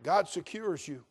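loud, ringing sermon voice; full-force preaching. Real, not acted. Preacher driving home assurance of salvation, preaching loudly. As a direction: preach it out to the pews.

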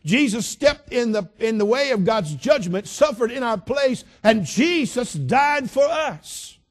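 high, loud, slow preaching climax; fiery preaching. Acted. Preacher telling the congregation Jesus died for us, fervent climax. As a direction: build to a fervent peak, slowly.

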